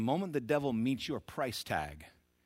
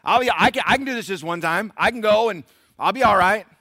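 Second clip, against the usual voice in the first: self-justifying sinner; 12 semitones higher, 17 dB louder than usual. Acted. Sinner voice again.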